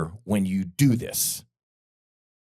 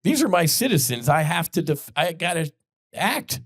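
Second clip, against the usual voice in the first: mock angry Trump; 6 semitones higher than usual.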